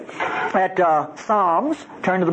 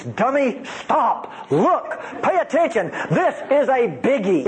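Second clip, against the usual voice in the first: playful scolding; 4 semitones higher than usual. Shown as a demonstration. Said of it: "It means".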